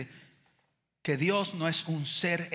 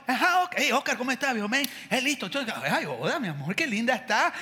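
easygoing, chummy greetings; casual banter like he's off the pulpit; casual pastor offstage; 4 semitones higher than usual. Retold or imitated. Pastor chatting casually before preaching. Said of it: "el man abajo no hablaba así".

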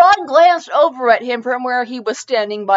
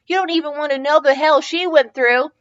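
evil cackle; 7 semitones higher, 4 dB louder than usual. A narrator's reading. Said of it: "she cackled evilly".

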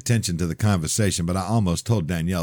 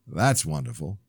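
sarcastic. Acted. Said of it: "obvious I was being sarcastic".

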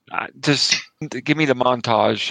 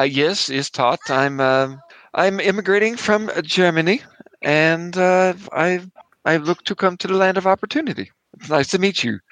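put-on hesitant, halting German accent; bad German accent; 4 semitones higher than usual. Immigrant introducing himself to the border officer, bad German accent. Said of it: "the worst German accent ever".

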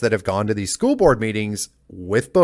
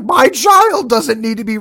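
high, loud indignant cry; the furious parent mid-rant; shrieking high indignation, imitated; enraged parent; 11 semitones higher, 6 dB louder than usual. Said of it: "And he's like".

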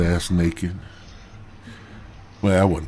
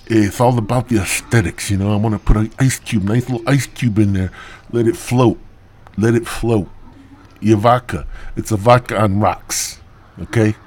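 lightly voiced toothless slur, a bit louder; toothless bartender; 4 dB louder than usual. Bartender explaining his ice cube, lightly mock toothless. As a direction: mimic a bartender missing teeth. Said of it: "He talked like that 'cause he was missing teeth".

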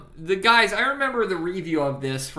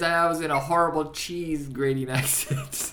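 mock movie line; 3 semitones higher, 5 dB louder than usual. Quoting movie character.

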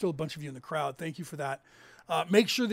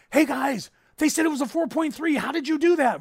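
put-on amazed girlfriend; 9 semitones higher, 7 dB louder than usual. Girlfriend amazed by guessed magnitude.

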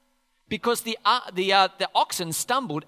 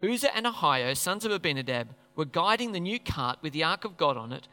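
scripture reading. Acted. Preacher reading the passage to the church, measured reading voice. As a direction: read the passage steadily.

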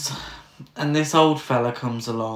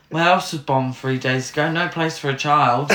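mock quote of film line. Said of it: "somebody fucking wrote that".

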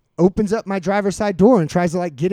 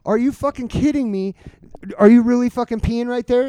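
higher, mildly heated reenacted complaint; indignant disbelief; 6 semitones higher, 5 dB louder than usual. Storyteller reacting to drunk peeing at work, exasperated disbelief.

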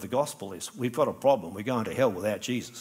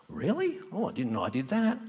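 mock surprise; 5 semitones higher than usual. Acted surprised reply to friend.

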